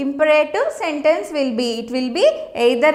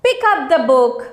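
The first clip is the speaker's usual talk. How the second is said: command; 3 semitones lower than usual. Shown as a demonstration. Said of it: "I am ordering".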